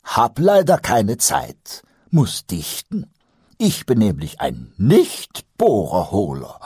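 lightly voiced cheeky goblin; sly goblin voice. Pumuckl rhymes a slow excuse.

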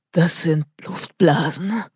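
slow, effortful words through fear; strained, forced out. Acted. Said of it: "brachte Tobi mühsam hervor".

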